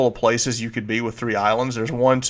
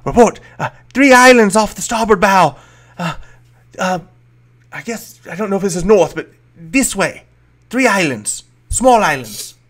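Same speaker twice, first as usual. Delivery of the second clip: kobold sailor report; 7 semitones higher, 4 dB louder than usual. Acted.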